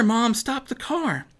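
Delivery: slow down and insist. A narrator's reading. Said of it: "Maddie cried out".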